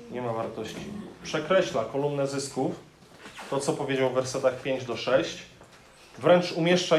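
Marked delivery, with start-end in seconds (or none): 0.1-0.8 "Nie ma wartości" repeated softer, letting it sink in; a soft restatement of "Nie ma wartości"; quiet echo. Shown as a demonstration.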